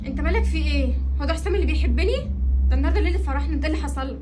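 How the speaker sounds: loud, upset protest; hurt wife protesting loudly. Acted. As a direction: raise your voice at your husband in disbelief. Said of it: "انت بتعلي صوتك عليا".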